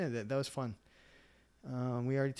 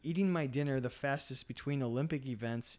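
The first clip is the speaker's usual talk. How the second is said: ordinary delivery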